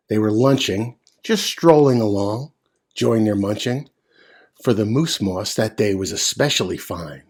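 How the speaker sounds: put-on rhythmic read-aloud for children; storybook narration. A narrator's reading. Reading Seuss aloud to children, rhythmic storytelling. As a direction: read it with a bouncy rhyme.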